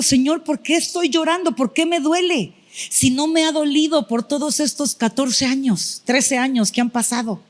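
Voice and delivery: high, pleading cry to God, near tears; a choked-up plea; tearful prayer. Retold or imitated. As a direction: ask why it hurts, voice rising toward tears. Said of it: "empecé a llorar y le digo".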